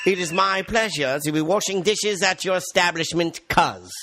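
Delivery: mock polite job applicant. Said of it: "don't fuck up and go".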